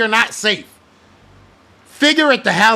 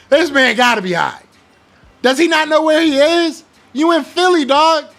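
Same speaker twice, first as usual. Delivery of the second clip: incredulous; 7 semitones higher, 3 dB louder than usual. Retold or imitated. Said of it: "they were probably like".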